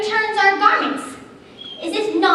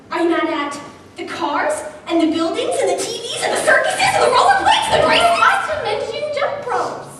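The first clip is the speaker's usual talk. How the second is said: higher, louder laughing list; 5 semitones higher, 3 dB louder than usual. Acted. A girl laughing while listing things to be mad at. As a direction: giggle your way through.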